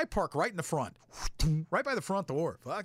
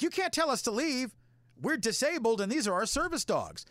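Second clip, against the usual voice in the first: indignant women; 8 semitones higher than usual. Retold or imitated. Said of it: "And they're like".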